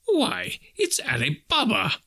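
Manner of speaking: put-on high-pitched, delighted old Scrooge exclamation; ecstatic. A narrator's reading. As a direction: cry out in ecstasy at a beloved sight. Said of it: "Scrooge exclaimed with ecstasy".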